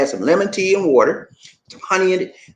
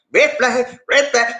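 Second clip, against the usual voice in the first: antenna warning; 5 semitones higher, slower than usual. Acted. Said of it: "and I like".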